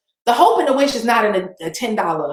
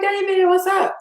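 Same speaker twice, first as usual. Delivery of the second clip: put-on high, bright-eyed hello to an old friend; excited greeting; 11 semitones higher than usual. Greeting her friend David who runs the event, excitedly high. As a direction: call out his name with delight.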